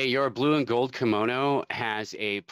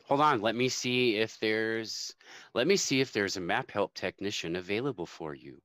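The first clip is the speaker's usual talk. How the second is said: automated phone operator. Pretend. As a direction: read it like a phone menu. GM plays automated map helpline.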